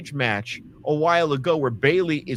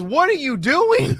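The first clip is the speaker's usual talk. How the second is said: imitating; 11 semitones higher, 5 dB louder than usual. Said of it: "And Bianca Belair goes".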